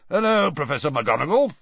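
casual, unbothered hello; calm greeting. A narrator's reading. Moody greets McGonagall mid-punishment, calm. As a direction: greet as if nothing is amiss. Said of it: "said Moody calmly".

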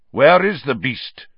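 a cold executioner demanding the beast. A narrator's reading. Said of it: "came the cold voice of McNair".

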